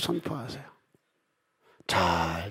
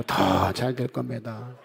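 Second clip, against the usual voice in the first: congregational declaration; slower than usual. Shown as a demonstration. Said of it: "다시요".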